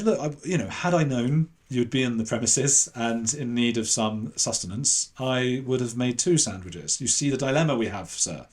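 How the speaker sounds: a touch of over-formal politeness; eloquent posh speaker. Retold or imitated. Student politely refuses his sandwich, mildly mock-posh and eloquent. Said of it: "I didn't have the accent I have now".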